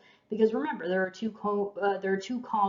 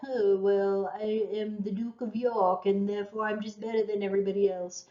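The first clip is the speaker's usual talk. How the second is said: mock French-accented duke; a botched British duke, sounding French. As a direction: put on a haughty duke with a slight French accent. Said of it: "like, a French accent".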